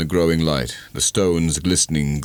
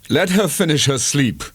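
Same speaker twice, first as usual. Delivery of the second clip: 1 implored; 9 semitones higher than usual. A narrator's reading. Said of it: "he implored".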